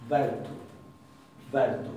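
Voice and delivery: Bertu with a retroflex, untrilled R; English-style R. Shown as a demonstration. Teacher giving an example word, retroflex R. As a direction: curl back the R in Bertu. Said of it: "como se dice la R en inglés".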